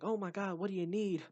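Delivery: high, loud mock-exasperated nurse; annoyed school nurse. School nurse mocked as exasperated with the wheezing kid, high and loud. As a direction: play the fed-up nurse brushing a kid off. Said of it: "And she'd be like".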